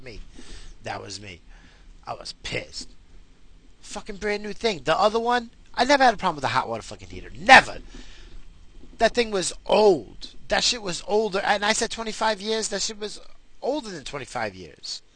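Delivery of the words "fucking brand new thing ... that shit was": heated rant, higher and louder; angry rant. Real, not acted. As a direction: vent your fury at the broken heater. Ranting about the old heater.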